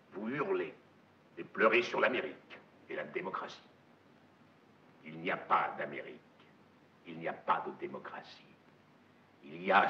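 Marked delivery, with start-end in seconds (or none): 0.1-8.4 hammy stage actor. Acted. Sudden drop to quiet menace.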